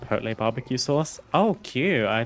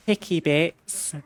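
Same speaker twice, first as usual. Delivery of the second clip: put-on posh British accent, higher and slow; 8 semitones higher, 3 dB louder, slower than usual. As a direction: drawl out picky bits, very British. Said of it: "you have to say picky bits with a obnoxious British accent".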